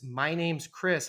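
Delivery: slow, scripted self-intro on the phone; stiff phone script. Retold or imitated. Leasing agent answering the phone with a slow, scripted line. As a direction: recite it like a rote call-center line. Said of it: "Worst possible things you could ever say to a renter".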